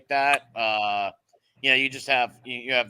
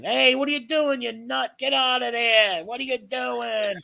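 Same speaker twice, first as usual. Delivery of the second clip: mock yelling at the dog; 10 semitones higher than usual. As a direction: scold the dog like a fed-up owner. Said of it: "I yell at him in Italian".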